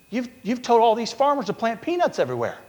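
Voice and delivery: high, frightened accusation; panicked. Retold or imitated. Booker T panics in retold story.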